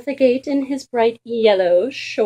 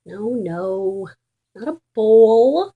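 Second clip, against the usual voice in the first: exasperated sigh; 4 dB louder, slower than usual. Acted. Dog sighing at the kitten, loud and exasperated. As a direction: sigh it out at the silly cat. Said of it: "sighed Raja".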